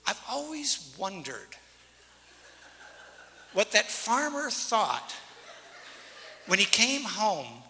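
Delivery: chuckling slowly through the words; laughing. Real, not acted. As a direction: laugh while you slowly tell it. Laughing while telling the ending.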